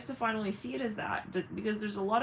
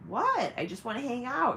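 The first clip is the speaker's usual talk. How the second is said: higher-pitched fake-innocent whine; mock innocent; 5 semitones higher than usual. Energy drainer claiming to just hang out, mock-innocent. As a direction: imitate someone playing harmless.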